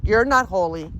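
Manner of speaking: insistent, emphatic denial; firm rebuke. Real, not acted. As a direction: flatly refuse the spirit's claim. Repeats rebuke to the spirit.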